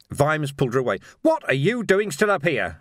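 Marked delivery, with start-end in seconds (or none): 1.2-2.8 high, forceful angry shout; roared. A narrator's reading. Vimes pulls her away, roaring. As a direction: roar it over the battle. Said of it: "he roared".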